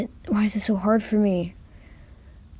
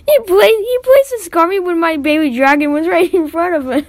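loud complaint; 9 semitones higher, 7 dB louder than usual. Real, not acted. Complaining while laughing.

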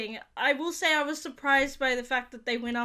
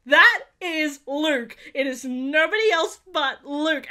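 excited; 2 semitones higher, 6 dB louder, slower than usual. Retold or imitated. Recognizing the X-Wing.

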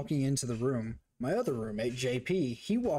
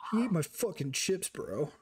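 mock indignant; 4 semitones higher than usual. Retold indignant complaint to friend.

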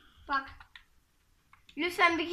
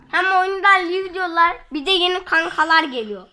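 excited; 2 semitones higher, 8 dB louder than usual. Acted. Announcing to viewers.

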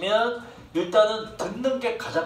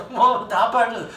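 very slow, louder laughing "뭐, 다 pardon."; laughing mock; 6 semitones higher, 5 dB louder, much slower than usual. Teacher laughs at Koreans saying pardon. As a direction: drag it out while laughing. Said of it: "다 그 사람".

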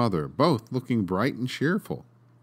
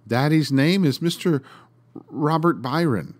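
lightly voiced child, higher and louder; pleading little girl; 5 semitones higher, 4 dB louder than usual. A narrator's reading. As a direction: call it out as an earnest small girl. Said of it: "went on poor little Olive".

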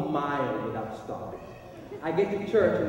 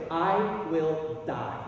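solemn vow; 2 semitones lower, 4 dB quieter than usual. Retold or imitated. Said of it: "I might even said it out loud".

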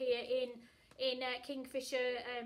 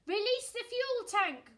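ordering; 10 semitones higher, 8 dB louder than usual. Acted. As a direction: give the order firmly. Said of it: "orders Commander Mandy".

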